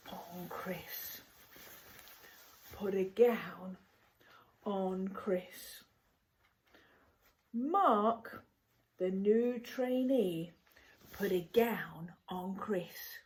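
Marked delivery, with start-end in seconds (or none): 2.7-5.8 whisper. Shown as a demonstration. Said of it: "repeated as a whispered echo". 11.1-13.2 whisper. Shown as a demonstration. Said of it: "repeated as a whispered echo".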